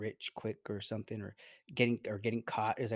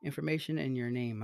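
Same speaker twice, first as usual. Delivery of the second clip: imitating scam caller; 5 semitones higher than usual. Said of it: "he's like".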